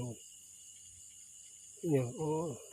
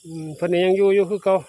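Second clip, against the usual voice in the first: ตื่นเต้น; 4 semitones higher, 8 dB louder than usual. Real, not acted. Spots the fish still there.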